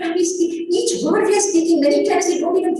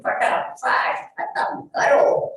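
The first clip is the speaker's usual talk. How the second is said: impatient hurry. Retold or imitated. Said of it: "do it in five minutes".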